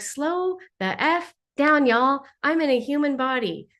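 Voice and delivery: mock pleading with spirit guides; playful scolding. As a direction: rein them in with a grin. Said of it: "I can be very human".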